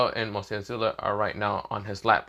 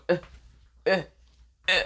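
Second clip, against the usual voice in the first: nervous grunts; 7 semitones higher than usual. Retold or imitated. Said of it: "He's right now sweat dropping".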